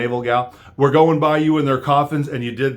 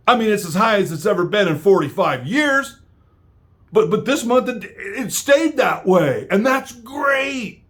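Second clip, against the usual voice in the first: mocking Biden; 8 semitones higher than usual. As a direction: stretch it out like a clueless old man. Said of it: "You cannot make up this kind of stupidity".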